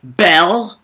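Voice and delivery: high, loud show-off cry; hammed-up boast; gloating excitement. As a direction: brag to Bell about the cell phone. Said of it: "I'd be like".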